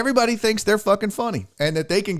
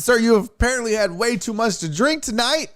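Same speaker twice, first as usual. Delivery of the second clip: higher-pitched, pointed telling-off; emphatic rebuke; 5 semitones higher than usual. Retold or imitated. Comedian tells a heckler he's drunk, high emphatic rebuke. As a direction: spell it out to a drunk, voice raised in pitch.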